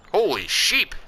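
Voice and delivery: startled, pitch jumps high; shocked exclamation. Real, not acted. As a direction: react to bad news on the phone, stunned. Shocked by phone news.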